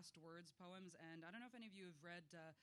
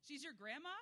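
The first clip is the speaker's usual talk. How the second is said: surprised; 9 semitones higher, 9 dB louder than usual. Real, not acted. Audience reveal about Le Guin.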